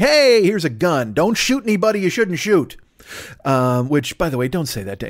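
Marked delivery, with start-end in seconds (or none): 0.0-2.8 casual team official. Retold or imitated. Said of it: "they're like".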